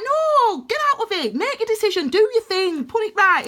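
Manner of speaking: loud, high-pitched string of orders; commanding universe. Acted. Universe telling the listener to decide, insistent shouting. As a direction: fire off urgent commands, pitched right up. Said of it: "universe is like".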